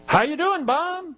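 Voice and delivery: high, upbeat acted greeting; friendly greeting. Preacher plays someone checking on Bob, friendly greeting. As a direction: greet a friend, voice lifting at the end.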